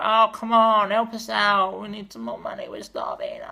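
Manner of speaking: beg, then collapse into a whisper; mock-starving union plea; desperate unions. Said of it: "trade unions were like".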